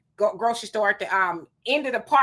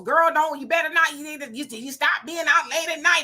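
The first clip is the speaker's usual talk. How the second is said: scolding elder; 5 semitones higher than usual. Retold or imitated. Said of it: "hear your mama, your auntie".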